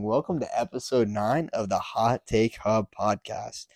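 reading on autopilot, no energy; flat, bored podcast intro; monotone intro read. Real, not acted. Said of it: "Why are you talking so monotone".

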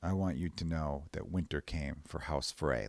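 a hint of a quiet, cold avenger; Arya quoting. Arya telling the Freys in a quiet, cold voice. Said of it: "she's like".

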